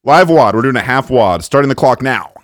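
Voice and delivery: excited shout. Real, not acted. Starting the cracker challenge.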